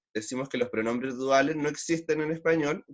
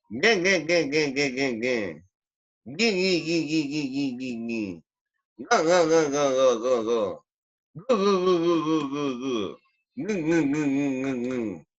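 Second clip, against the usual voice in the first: Calamardo laugh. Shown as a demonstration. Teacher drilling every vowel for students, nasal cartoon laugh. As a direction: honk each "ng" syllable in descending chains. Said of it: "Eso con cada letra".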